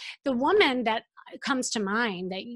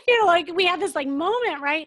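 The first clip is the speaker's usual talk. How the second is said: emotional; 7 semitones higher, 6 dB louder than usual. Real, not acted. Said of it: "and then I start crying".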